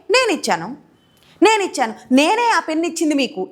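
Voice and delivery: నేను and నేనే pressed hard; the speaker stresses నేనే to show that he did it. Shown as a demonstration. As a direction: lean on నేను, then on నేనే. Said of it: "ఇలా నేను అని నన్ను నేను నొక్కి చెప్తున్నాను".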